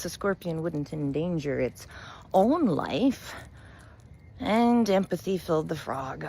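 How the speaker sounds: unhurried storyteller reading a fable; story narration. A narrator's reading. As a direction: tell it like a bedtime fable to your followers. Reads a fable to viewers.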